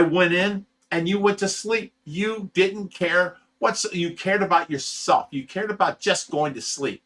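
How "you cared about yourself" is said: ordinary talk, nothing marked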